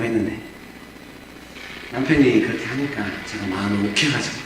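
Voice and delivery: soft, low repentant prayer; a soft, low, contrite prayer; humble prayer. Retold or imitated. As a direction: confess quietly and low to God. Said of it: "이 부인의 기도가 약간 바뀐 거예요".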